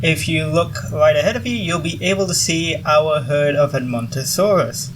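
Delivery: upbeat guide addressing a tour group; peppy orientation-leader welcome, lightly voiced. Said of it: "that's my tour guide voice right there".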